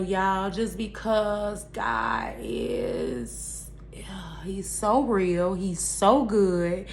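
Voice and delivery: slow, voice catching with a breathy hush; real emotion. Real, not acted. Moved to tears telling viewers God is real, slow and hushed. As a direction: overcome while praising God. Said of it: "Oh, and I get emotional".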